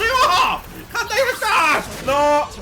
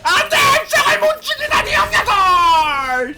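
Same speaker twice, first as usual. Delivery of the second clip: 절규; 4 semitones higher, 3 dB louder than usual. Real, not acted. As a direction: wail and yell as the kill slips away. 적을 놓치며 절규. (높게 늘여 뽑는 안타까운 절규)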